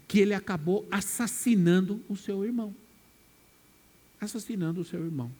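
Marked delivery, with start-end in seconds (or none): 4.2-5.3 softer, quick hushed repeat; quiet echo. Shown as a demonstration. Preacher echoes Cain's crime to the congregation, hushed and quick. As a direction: let it drop away like an afterthought. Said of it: "repeated right after".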